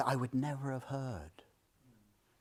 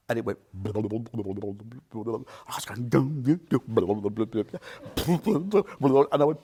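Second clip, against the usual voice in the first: retold sob; 6 semitones lower, 5 dB louder, much slower than usual. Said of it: "a single sob started".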